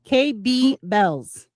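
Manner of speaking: K B Bells said slowly, letter by letter; careful name pronunciation. Shown as a demonstration. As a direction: spell out K B Bells slowly and clearly. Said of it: "That's how I say her name".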